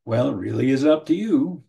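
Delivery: "Well, it really is up to you" with a dry, sarcastic edge on "really". Shown as a demonstration. Counselor showing how sarcasm sounds, with a sneering "really". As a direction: lean on "really" so the line sounds dismissive. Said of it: "some sarcasm to what you say".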